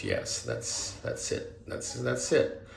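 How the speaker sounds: softly murmured, imitating a quiet affirmation; hushed retold reply. Jesus answers his question with a nod, hushed retold reply.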